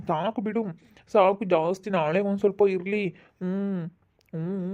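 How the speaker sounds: sleep mumbling. Acted. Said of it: "ಅದ್ಕೆ ಹಿಂಗ್ ಮಾತಾಡ್ತಾ ಇದ್ದಾನೆ".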